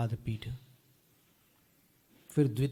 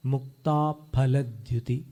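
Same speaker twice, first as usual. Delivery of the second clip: slow careful recitation; slower than usual. Shown as a demonstration. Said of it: "ऐसा बोलना पड़ेगा".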